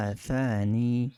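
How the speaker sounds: আফানি drawn out with ain; slow demonstration. Shown as a demonstration. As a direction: say আফানি slowly, syllable by syllable. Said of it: "এটা আইন হবে". (ধীরে আফানি)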